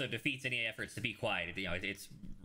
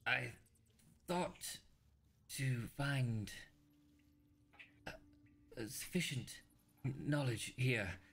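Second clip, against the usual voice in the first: raspy dying voice; 3 semitones higher than usual. Acted. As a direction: rasp out last words from the grave. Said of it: "you hear a, uh, raspy voice".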